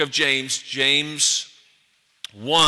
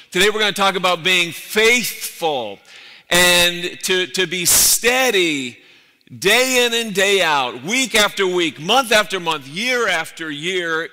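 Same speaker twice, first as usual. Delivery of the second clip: preaching build; 3 semitones higher, 4 dB louder than usual. Real, not acted. Sermon building to climax.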